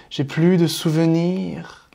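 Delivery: drawn-out words while writing; slow dictation. Real, not acted. Teacher writing out Baudelaire's verse for the viewer, slow dictation. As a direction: say it slowly as you write it down.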